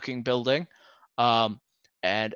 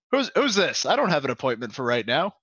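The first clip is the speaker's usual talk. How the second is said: lightly voiced flustered manager; startled manager; faster than usual. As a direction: caught off guard at his desk.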